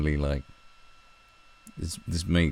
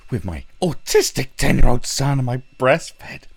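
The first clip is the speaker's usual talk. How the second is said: mocking Mumsnet mum; 6 semitones higher, 7 dB louder than usual. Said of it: "the way she says".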